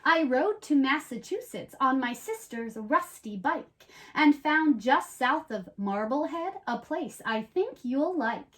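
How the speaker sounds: storybook read-aloud, lively and even; reading to children. Acted. Host reads the rhyming book to young viewers, in a storybook voice. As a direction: tell it like a bedtime rhyme.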